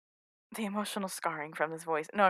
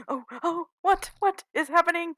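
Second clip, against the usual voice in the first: surprised; 8 semitones higher, 4 dB louder than usual. Real, not acted. Alone, music suddenly playing.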